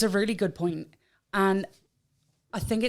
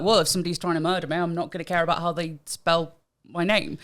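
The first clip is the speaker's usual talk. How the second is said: quick, tossed-off retelling; fast mock quote; mock glib quote; 2 semitones lower, faster than usual. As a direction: rattle off a glib claim, fast. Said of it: "say things like".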